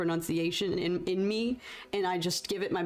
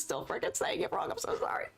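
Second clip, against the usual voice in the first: whisper; 4 semitones higher, 4 dB quieter than usual. Real, not acted. Final whispered apology.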